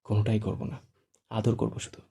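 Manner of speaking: tender, quiet reassurance; gentle smiling promise to the bride; soft smile. Acted. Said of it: "মৃদু হেসে বলে".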